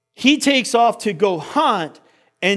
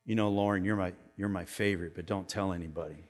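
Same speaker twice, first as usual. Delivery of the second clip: put-on much softer, hushed secret to a child; secretive confiding; 12 semitones lower, 14 dB quieter, faster than usual. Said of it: "and I told them".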